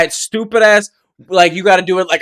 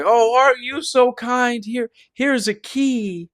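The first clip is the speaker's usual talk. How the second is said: bum; 5 semitones higher, 6 dB quieter than usual. Retold or imitated. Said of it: "the bum was like".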